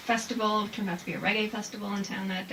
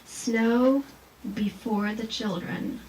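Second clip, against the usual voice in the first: poem reading; 3 dB louder, much slower than usual. Shown as a demonstration. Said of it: "So there's a couple like that".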